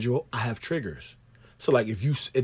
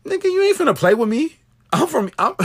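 much higher, louder you ain't finna play with me; mock tough-talk; 12 semitones higher, 4 dB louder than usual. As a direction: act out squaring up to someone. Mock confrontation.

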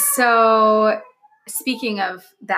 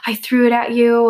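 put-on toddler confessing; 3 semitones higher, 6 dB louder than usual. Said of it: "And he's like".

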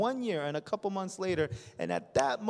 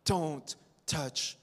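proud refusal; 3 semitones lower, slower than usual. Acted. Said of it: "here you are again saying".

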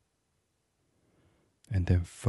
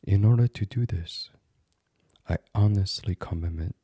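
calm but firm meditation voice, measured phrases; gently resolute affirmation, pausing between phrases; firm self-affirmation; 4 dB louder than usual. Acted. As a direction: state each intention with steady conviction. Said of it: "So to say firmly to yourself".

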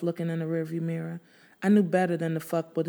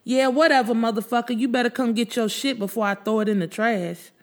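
mild mock scream; 5 semitones higher than usual. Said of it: "I screamed back".

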